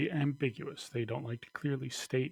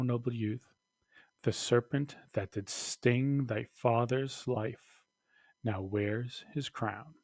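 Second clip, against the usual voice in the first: dramatic Shakespeare reading, a touch raised; ghost's speech. Acted. Teacher reading the ghost's words to Hamlet, dramatically. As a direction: declaim the ghost's lines with weight.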